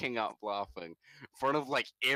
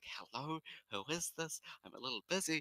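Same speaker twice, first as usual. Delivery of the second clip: hushed, quiet half-whisper; 3 semitones higher, 8 dB quieter than usual. Retelling answering a phone call while hiding in a movie, half-whispering. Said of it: "and I'm still whispering".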